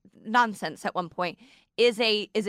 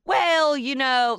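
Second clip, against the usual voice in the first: mock hemming and hawing; 4 semitones higher, 4 dB louder, slower than usual. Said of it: "she would hem and haw".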